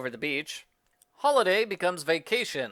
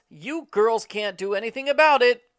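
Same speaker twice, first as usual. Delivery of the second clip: taunting goblin; 8 semitones higher, 5 dB louder than usual. Acted.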